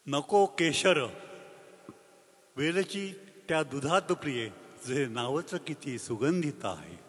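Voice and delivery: slow, measured verse with lingering words; poem recitation. Acted. Elderly poet shares his Kojagiri poem at a concert, slow recitation. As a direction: recite it unhurriedly, letting each line fall at its end.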